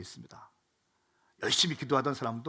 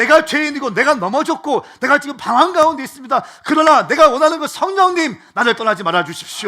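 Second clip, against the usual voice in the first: loud, high, pleading preacher's cry; peak preaching cry; 9 semitones higher, 14 dB louder than usual. Acted. Pastor voicing David's plea, loud high preaching cry. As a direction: plead for the Spirit at the top of the voice.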